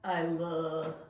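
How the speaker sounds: low, halting, can't finish the words; first i love you. Acted. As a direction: force out a grudging half confession. Coaxed into confessing love.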